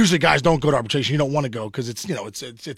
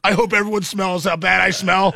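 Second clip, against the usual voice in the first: triumphant shout. Retold or imitated. Walking back into arbitration, triumphant shout. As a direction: proclaim it like a superhero.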